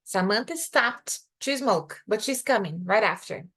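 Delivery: slow with weight on "to"; slow example. Shown as a demonstration. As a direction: stress "to", slowly. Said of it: "See the difference?".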